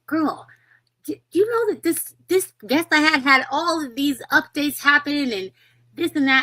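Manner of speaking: lightly voiced gushing girlfriend; high, excited retold friend. Friend quoted in story.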